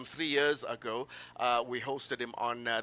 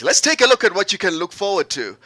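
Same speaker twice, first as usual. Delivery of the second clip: loud, higher-pitched host call; big stage-host lift; announcing the line-up; 5 semitones higher, 11 dB louder than usual. Real, not acted. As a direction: launch the preview to the crowd. Host launches the line-up to audience.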